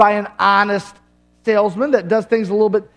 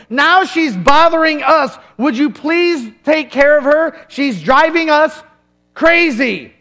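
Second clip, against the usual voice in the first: higher, louder exasperated whine, slow; annoyed disciples; 4 semitones higher, 4 dB louder, slower than usual. Acted. Disciples grumble to Jesus, higher exasperated whine. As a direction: complain like fed-up followers.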